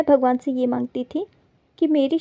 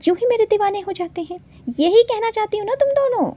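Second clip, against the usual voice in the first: sarcastic jab; 6 semitones higher than usual. Acted. Sarcastic retort to the two girls.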